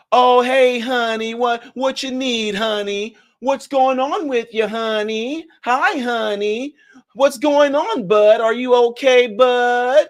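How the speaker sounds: put-on sing-song talking down to an elder, like to a small child; patronizing baby talk. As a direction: coo at an old person as if they were a toddler. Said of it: "You're not supposed to talk to them like".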